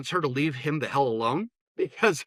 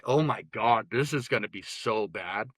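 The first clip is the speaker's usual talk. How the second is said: muttered dread; 4 semitones lower than usual. Retold or imitated. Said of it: "And I'm like".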